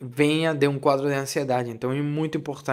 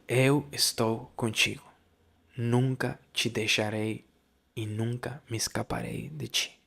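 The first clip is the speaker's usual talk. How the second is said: gentle voice of a little son; 3 semitones lower, 5 dB quieter than usual. Retold or imitated. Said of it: "e falou assim, dizendo".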